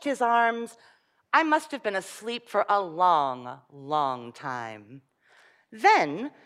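put-on lively storybook reading for children; story reading. Reading a fairy tale aloud to children.

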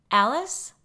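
loud calling out upstairs; yelled. A narrator's reading. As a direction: call up the stairs loudly. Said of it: "she yelled".

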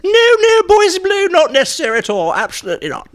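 put-on very high, loud tipsy old lady voice; Jenny Fulborough voice. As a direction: trill like a dotty dame after a few sherries. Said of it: "Jenny Fulborough".

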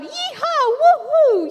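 high, loud yeehaw whoops; whooping yell. Acted. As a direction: whoop like the happiest friends alive. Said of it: "yelled the friends".

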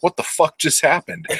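a mock-baffled high squeak of disbelief; baffled Count. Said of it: "while the Count's like".

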